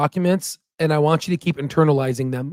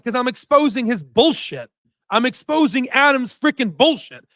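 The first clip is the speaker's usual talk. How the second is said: angry rant; 6 semitones higher than usual. Real, not acted. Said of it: "I'm really pissed off".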